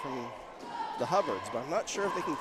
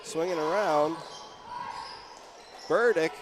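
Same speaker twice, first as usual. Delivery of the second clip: punchy basketball call, lifting on key moments; live play-by-play; 3 semitones higher than usual. Real, not acted. Announcer tells listeners Button opts to shoot, live play-by-play. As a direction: call the action as it happens.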